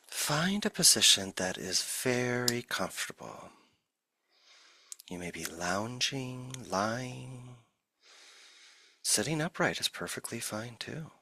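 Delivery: unhurried meditation guide with long silences between phrases; guided meditation. Acted. Teacher settling listeners into the body, guided meditation. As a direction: ease listeners gently into stillness, leaving long pauses.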